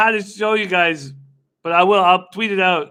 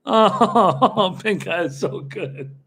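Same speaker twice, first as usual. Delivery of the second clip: laughing; much slower than usual. Real, not acted. Laughing at a viewer's funny post.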